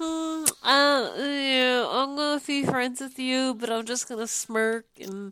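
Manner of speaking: mock closed-lip smirk voice. Co-host acting out a contestant's insincere smile, smirking. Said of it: "more of a smirk than a smile".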